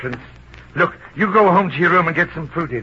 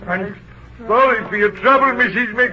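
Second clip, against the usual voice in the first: shouted condolence; 5 semitones higher than usual. Acted. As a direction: blurt out sympathy at full voice. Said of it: "What are you shouting for?".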